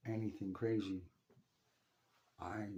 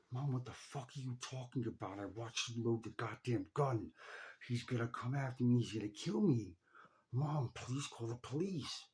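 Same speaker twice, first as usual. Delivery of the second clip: intense plea; 3 semitones higher than usual. Retold or imitated. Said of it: "As intensely as I could say it to her".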